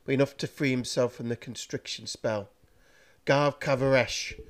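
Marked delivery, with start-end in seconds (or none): 3.3-4.4 slow, strained groan of an incantation. Acted. Master breaking free of the chain, slow groan. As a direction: force the spell words out through pain. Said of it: "groaned Carrigan".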